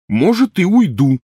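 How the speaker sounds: very high, loud defiant yell; shouting. A narrator's reading. Ron threatening to leave, loud defiant yell. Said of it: "крикнул Рон".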